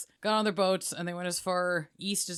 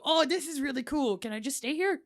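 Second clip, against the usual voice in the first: mock delighted Viking; 7 semitones higher than usual. Viking loving new place.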